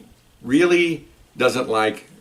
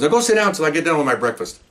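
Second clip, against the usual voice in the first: raised-pitch, mock-gruff order; gruff dismissal; 5 semitones higher than usual. Gruff cop orders lost driver to wait, mock brusque. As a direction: send him away like an irritated cop. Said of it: "he's really gruff".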